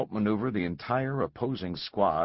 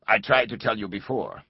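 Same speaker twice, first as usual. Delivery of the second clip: stiff, toneless caller; rigid mechanical voice; 3 semitones higher, 5 dB louder than usual. Acted. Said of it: "The voice was rigid, mechanical".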